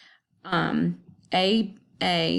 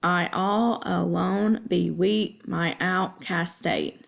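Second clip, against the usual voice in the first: counting syllables; slower than usual. Shown as a demonstration. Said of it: "I counted to see if there were ten syllables".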